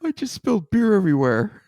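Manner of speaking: Jon impression. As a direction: squeak it out as Jon. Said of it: "I'm gonna try though anyway".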